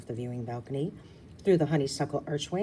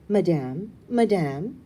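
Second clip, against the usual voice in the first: louder, lilting French Madame; formal greeting; 3 semitones higher, 7 dB louder, slower than usual. Acted. Hostess greeting two old ladies, lilting French. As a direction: greet them with a graceful bow.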